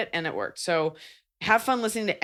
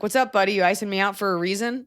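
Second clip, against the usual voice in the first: casual buddy tone; 3 semitones higher than usual. Shown as a demonstration. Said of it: "be like".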